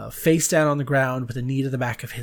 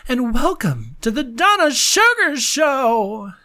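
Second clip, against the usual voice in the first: grand, swooping theatrical greeting; high, hammed-up old show dame; put-on hostess voice; 9 semitones higher than usual. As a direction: welcome the fans like a campy diva. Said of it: "I don't know why I do that with my voice".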